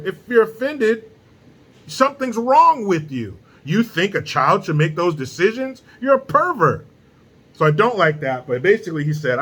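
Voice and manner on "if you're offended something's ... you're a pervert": indignant rebuke. Real, not acted. Rant at those who get offended.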